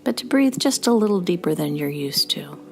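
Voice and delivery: measured meditation guide with long pauses; even, unhurried instructions with room to breathe between them; guided meditation. Real, not acted. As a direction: lead listeners into rest, phrase by phrase.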